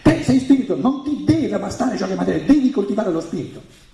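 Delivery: high, laughing sermon tone; mock preachy. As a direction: lecture them like a preacher. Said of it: "Invece la Chiesa dice".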